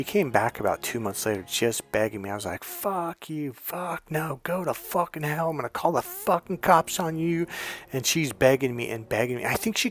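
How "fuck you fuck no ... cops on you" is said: hushed, higher-pitched mock yell; retold angry rejection. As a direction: spit out the refusal at reduced volume. Retold angry rejection, held back.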